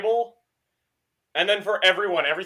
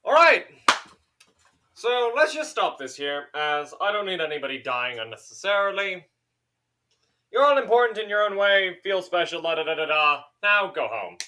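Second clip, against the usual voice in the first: loud, higher-pitched figure taking command; brisk godlike interloper; 4 semitones higher, 6 dB louder than usual. Acted. Robed man dismissing the whole party, loud and commanding. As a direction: start high and loud, then settle into a dismissal.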